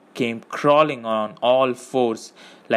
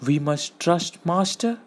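higher, questioning creature voice; doubtful; 6 semitones higher than usual. A narrator's reading. Gollum questioning Frodo's promise, doubtfully. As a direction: doubt it, ending on a rise. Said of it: "said Gollum doubtfully".

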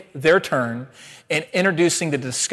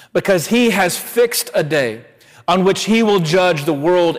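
raised, measured public reading of scripture; 2 semitones higher than usual. Acted. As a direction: proclaim the text to the congregation. Reads scripture aloud in service.

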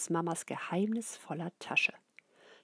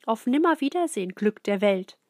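mock lament; 2 semitones higher, 8 dB louder than usual. A narrator's reading. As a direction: wail a goodbye to the muffin. Muffin eaten, mock lament.

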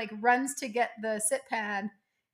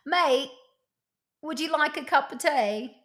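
Cuppa impression; 4 semitones higher, 4 dB louder than usual. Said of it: "What's your best Cuppa impression?".

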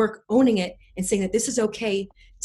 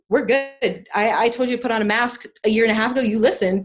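lightly voiced inner self, a bit louder; her scared inner part; 4 semitones higher, 8 dB louder than usual. Her fearful inner part thanking her for the mask, lightly voiced. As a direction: give the protective inner part a light, kind voice. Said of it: "the part of me that was very scared of using my voice came in and said".

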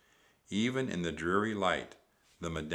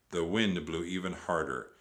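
ordinary delivery

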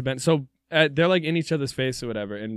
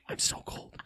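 whispering; 11 dB quieter, slower than usual. Pretend. Acting out the pants swap.

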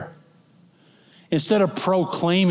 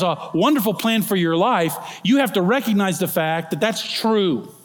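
raised, earnest preaching; fervent preaching; 3 semitones higher than usual. Acted. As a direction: press the promise on the congregation. Preaching at full force.

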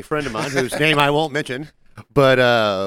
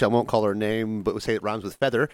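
ordinary talk

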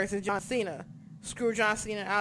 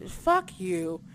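angry outburst; 7 semitones higher, 4 dB louder, much slower than usual. Real, not acted. Angry at beach ball fans.

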